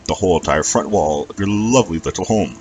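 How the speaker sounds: put-on loud Rockingham-accented dragon; hearty Rockingham accent. A narrator's reading. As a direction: pipe up courteously in a Rockingham accent. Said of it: "that Rockingham accent was a decent way".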